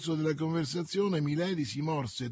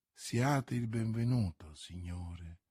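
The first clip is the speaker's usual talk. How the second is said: softly voiced sweet welcome, lower; gentle sweetness; 5 semitones lower, 5 dB quieter, slower than usual. A narrator's reading. Milady welcomes D'Artagnan, gently sweet despite her ill humour. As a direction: receive the guest with understated sweetness, pitched low. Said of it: "una voce la cui particolare dolcezza".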